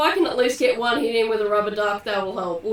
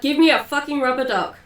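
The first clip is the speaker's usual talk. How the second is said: half-raised, in-character shout; mild acted yell; 3 semitones higher, 4 dB louder than usual. Trapped fighter demanding help from the crowd, mild acted yell. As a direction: call it out, slightly louder, without a full yell. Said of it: "I yell out".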